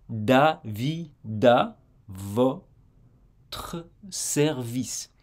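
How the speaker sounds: Davida, votre service stretched syllable by syllable, very slowly. Shown as a demonstration. Teacher slowing the linking down for learners. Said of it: "on dit".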